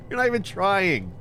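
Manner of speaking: high, mocking disbelief; "not" pushed high, then falling. Real, not acted. Mocking the game.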